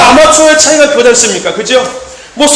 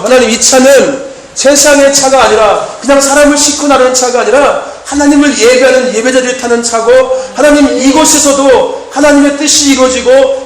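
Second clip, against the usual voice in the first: fervent prayer. Retold or imitated. Pastor retelling the van prayer to the congregation, fervent prayer.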